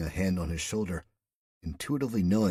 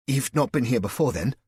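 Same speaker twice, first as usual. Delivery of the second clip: high, louder nervous question; voice an octave higher; 7 semitones higher, 5 dB louder than usual. A narrator's reading. Flustered man asks her about her sentence, voice pitched too high. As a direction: let the voice jump up high as you ask. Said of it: "his voice an octave higher than he thought".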